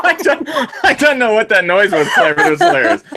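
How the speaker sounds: laughing through the words; can't stop laughing. Real, not acted. Laughing at a noise.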